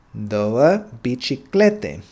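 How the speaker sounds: slowly, syllable by syllable, "Două biciclete"; slow repeat. Shown as a demonstration. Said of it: "two bicycles then is gonna be".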